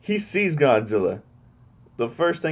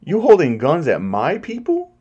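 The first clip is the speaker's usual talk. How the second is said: angry Kong; 9 semitones higher, 3 dB louder than usual. Retold or imitated. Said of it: "Kong's just like".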